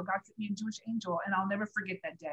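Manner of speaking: hushed grateful recap; quiet reflection. Real, not acted. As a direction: say it softly, wrapping up. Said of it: "it was an angel".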